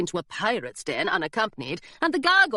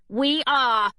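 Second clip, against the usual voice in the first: put-on defiant girl; 5 semitones higher, 4 dB louder than usual. A narrator's reading. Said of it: "said Hilary".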